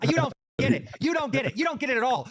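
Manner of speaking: insistent, worked-up protest; frustrated rant. Real, not acted. Host scolding an audience that doubts him, frustrated rant. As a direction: hammer it home in frustration.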